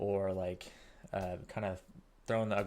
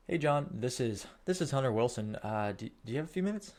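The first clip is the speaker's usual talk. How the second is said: upbeat, bright phone greeting, slowed; cheerful sales rep on the phone; friendly sales call opener; 4 semitones higher, 5 dB louder than usual. Shown as a demonstration. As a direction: greet the lead warmly like a salesman calling. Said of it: "So let's just role play this".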